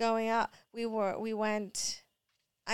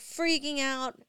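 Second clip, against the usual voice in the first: ordinary talk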